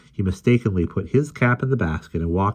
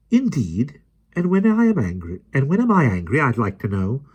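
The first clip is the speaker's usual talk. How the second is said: rising anger; 7 semitones higher, 3 dB louder than usual. A narrator's reading. Mary Poppins getting angry.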